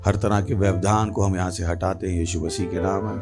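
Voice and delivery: low, measured prayer voice; opening prayer. Real, not acted. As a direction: pray steadily, pitched under normal talk.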